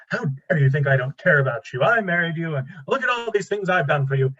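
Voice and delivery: a hint of offended indignation; mock defensive retort. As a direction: imitate a triggered husband getting defensive. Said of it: "That's defensiveness".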